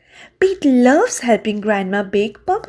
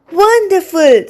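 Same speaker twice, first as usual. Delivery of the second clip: louder, higher delighted praise; an upbeat, louder mom exclamation; 7 semitones higher, 6 dB louder than usual. A narrator's reading. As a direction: Mom gushing over the souvenirs. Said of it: "says Mom".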